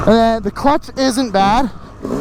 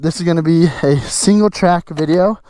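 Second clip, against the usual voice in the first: out of breath; 4 semitones lower than usual. Real, not acted. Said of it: "I apologize for my breathing".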